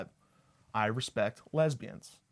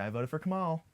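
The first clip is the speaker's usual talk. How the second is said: higher-pitched devoted supporter voice; true Kamala supporter; 6 semitones higher than usual. Acted. Comic telling women who he voted for, as a true supporter. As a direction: lift it like a proud devotee. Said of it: "I say it like a true Kamala supporter".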